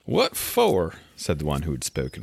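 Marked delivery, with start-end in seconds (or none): 0.0-0.9 startled question. Acted. Two asks startled.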